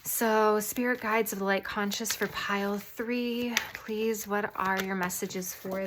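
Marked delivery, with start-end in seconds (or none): none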